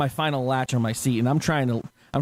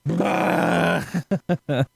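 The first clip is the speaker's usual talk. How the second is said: imitated wail; 3 semitones higher than usual. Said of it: "just looking at it and just".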